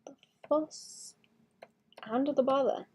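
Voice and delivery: breathy whisper, trailing off. Shown as a demonstration. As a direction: whisper it to yourself. Repeats phrase, whispered.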